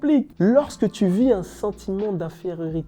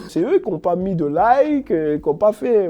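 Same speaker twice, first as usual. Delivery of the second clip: laughing; 6 dB louder than usual. Pretend. Blaming viewers jokingly.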